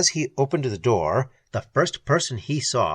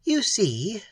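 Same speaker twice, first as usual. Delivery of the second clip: triumphant; 9 semitones higher than usual. Acted. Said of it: "said old Nestor triumphantly".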